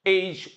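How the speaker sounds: एच repeated as 'aitch'; correct letter name. Shown as a demonstration. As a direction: drill एच as one syllable, 'aych'. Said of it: "इसको बोला जाता है एच". (एच का सही उच्चारण, एक ही स्वर में)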